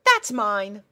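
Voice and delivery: very high, loud and bright-eyed; a chirpy girl pony puzzled by her steed; squeaky cheerful pony; pony princess voice. Acted. Pony character voice.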